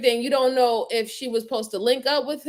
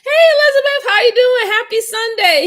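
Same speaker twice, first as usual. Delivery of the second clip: high, loud hammed-up crying voice; melodramatic mock greeting; 11 semitones higher, 10 dB louder than usual. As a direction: overact it like a fake grieving suspect. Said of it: "Melodramatic acting".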